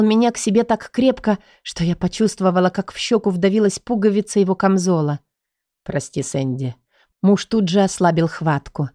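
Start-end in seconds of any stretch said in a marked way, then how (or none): 5.8-6.7 soft apology. Acted. Husband apologizes after crushing hug.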